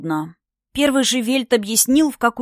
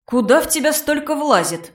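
mocking dragon voice; 6 semitones higher than usual. Dragon mocks her appetite.

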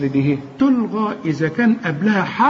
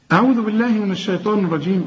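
recitation opening; faster than usual. Shown as a demonstration. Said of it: "بداية التلاوة".

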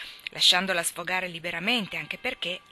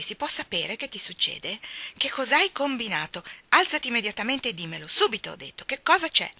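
higher, louder, insistent scolding; demanding scold; 4 semitones higher, 4 dB louder than usual. Acted. Marilla orders Anna to get up, loud and impatient. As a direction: demand the answer at once.

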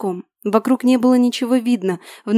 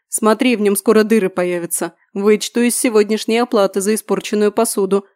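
lightly voiced joking grumble; mock grumbling. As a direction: grumble it in jest. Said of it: "в шутку заворчал Дрыга".

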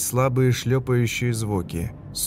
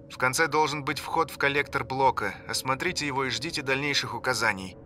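quiet, distant radio voice; like a voice through a walkie-talkie; over the radio; 3 semitones higher, 6 dB quieter than usual. Acted. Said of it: "голос по рации".

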